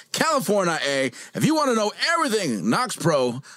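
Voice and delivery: loud, hyped announcer intro; loud sharp voice. Acted. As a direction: shout the show intro like an announcer. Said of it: "Why are you yelling?".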